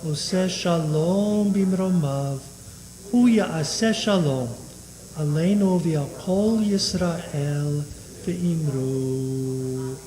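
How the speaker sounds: steady liturgical chanting of Kaddish; prayer recitation. Acted. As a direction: recite the Aramaic prayer evenly.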